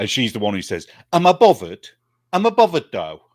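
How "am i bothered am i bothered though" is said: put-on loud, sing-song London teenager voice. Quoting a similar comedy character by Catherine Tate, as a Lauren impression, London teenager. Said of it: "she's very much like a London teenager".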